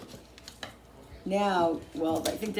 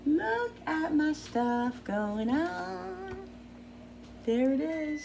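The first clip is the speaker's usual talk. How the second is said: excited; 9 semitones higher, 4 dB quieter, much slower than usual. Real, not acted. Showing off her cooking.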